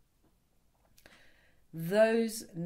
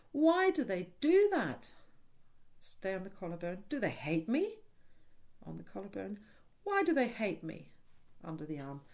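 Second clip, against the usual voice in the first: acted hurt; 5 semitones higher than usual. Shown as a demonstration. Therapist voicing the hurt client during tapping, distressed. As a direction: voice the hurt child's pain. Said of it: "use the word that, um, that triggers you".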